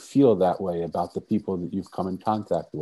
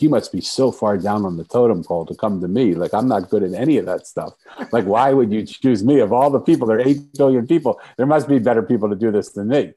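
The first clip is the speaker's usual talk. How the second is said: incredulous protest; 2 semitones higher, 7 dB louder than usual. Retold or imitated. Answering the calling, protesting he is the wrong person. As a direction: push back, amazed anyone would pick you.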